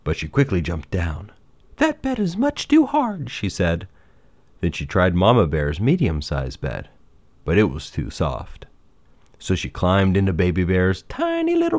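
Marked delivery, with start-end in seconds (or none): 1.8-3.3 put-on high-pitched storybook girl, displeased; high, fussy character voice; Goldilocks, complaining. 11.0-11.8 small, high storybook emphasis; tiny-little voice. A narrator's reading.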